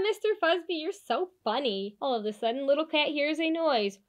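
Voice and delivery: put-on lively storybook narration for kids; animated picture-book read-aloud; reading to children. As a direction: read it like bedtime story time.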